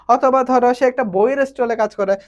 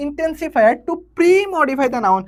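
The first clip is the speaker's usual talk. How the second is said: very slow, spelled-out reading of the instruction; slow dictation; 4 semitones higher, much slower than usual. Shown as a demonstration. Teacher reading the exercise instruction to students, very slow. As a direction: read the task aloud word by word. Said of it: "teacher reads the instruction".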